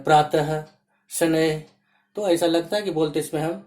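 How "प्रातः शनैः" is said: "प्रातः, शनैः" with an h at each word's end; visarga as h. Shown as a demonstration. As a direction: let "प्रातः" and "शनैः" finish on an h sound. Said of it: "ह का उच्चारण निकल रहा है".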